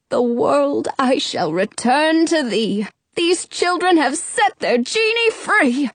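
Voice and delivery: solemn chant, rising as it ends; genie casting spell. A narrator's reading. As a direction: intone it like a magic spell.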